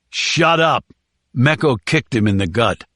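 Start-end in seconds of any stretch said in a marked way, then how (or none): 0.1-0.8 barked order, higher; angry shout. Acted. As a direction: snap it at him. Captor yells at prisoner.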